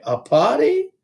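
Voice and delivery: high, thrilled little question; clap-your-hands delight. A narrator's reading. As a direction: librarian thrilled by the party news. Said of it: "clapped her hands together".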